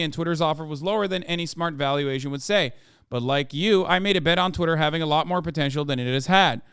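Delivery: put-on light Icelandic accent reading a letter. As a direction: read it with a hint of an Icelandic lilt. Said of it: "it's hard to keep doing the accent".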